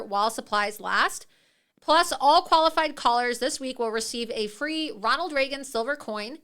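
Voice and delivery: upbeat sponsor read pitching silver. Acted. Host reads the Goldco sponsor spot to listeners, upbeat pitch. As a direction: sell it like a radio spot.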